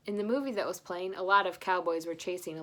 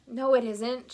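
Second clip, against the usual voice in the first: shouted; 5 semitones higher, 7 dB louder, slower than usual. Acted. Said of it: "shouted Grandpa".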